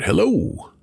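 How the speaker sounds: high-pitched holler of hello; hollered greeting. A narrator's reading. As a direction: call out to the house from outside. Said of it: "They always just hollered".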